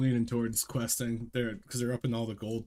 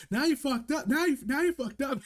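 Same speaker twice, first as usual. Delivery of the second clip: very high squeaky crab voices; squeaky crab chorus; 3 dB louder than usual. Retold or imitated. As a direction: squeak it like a swarm of crabs. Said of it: "it's like six crabs going".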